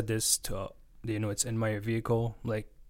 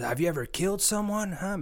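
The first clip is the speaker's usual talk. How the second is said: mock menace; 9 semitones higher than usual. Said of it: "there's a lot of bark".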